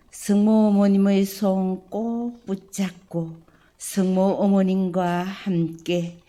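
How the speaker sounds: slow, solemn prayer to God the Father. Acted. Priest leading the parish family in opening prayer, solemn and devout. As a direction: pray it humbly, each phrase laid down with care.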